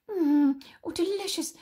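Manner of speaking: whispered mm then high relish; savouring grandma. Acted. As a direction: relish the taste grotesquely.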